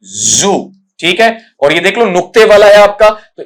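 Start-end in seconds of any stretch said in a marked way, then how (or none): 0.1-0.5 जू as "zoo", buzzing z and long oo; low, drawn-out "zoo" for जू; model pronunciation. Shown as a demonstration. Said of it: "ये बनेगा".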